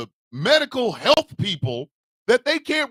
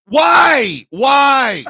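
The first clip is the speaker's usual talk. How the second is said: laughing; 9 semitones higher than usual. Real, not acted. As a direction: crack up at the absurdity. Laughing at the irony.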